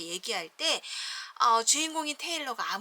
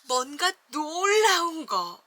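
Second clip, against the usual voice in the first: slow, loud, wide-eyed wonder; peak of amazement; 5 semitones higher, 6 dB louder, slower than usual. Shown as a demonstration. Teacher reading to kids, amazed at the tall tower. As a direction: make it the big reveal. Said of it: "감정 표현도 점점점 이렇게".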